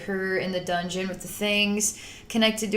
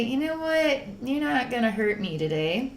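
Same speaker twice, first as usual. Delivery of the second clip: soft, loving reassurance; tender; 4 dB quieter than usual. Retold or imitated. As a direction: hush it lovingly to the goo. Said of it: "and we say".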